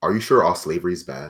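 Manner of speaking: understated, low-key, private just-between-us tone. A character walks over to another character and addresses him: quiet. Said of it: "just kind of quietly say".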